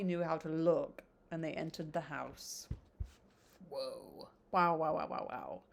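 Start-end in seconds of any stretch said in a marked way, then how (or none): 3.7-5.6 amazed. Real, not acted. Reacting to chapter ending.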